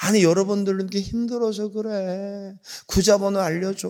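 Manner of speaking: high, put-on grandmother's old woman voice. Speaker retells a grandmother's call to a staff member, imitating an old woman's voice. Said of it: "늙은 목소리가 오는 거야".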